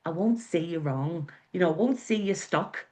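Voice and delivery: a light, half-hearted Northern Irish lilt; Northern Irish accent. Retold or imitated. Quoting the locals' saying she loves, light Northern Irish accent. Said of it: "Sorry for the accent".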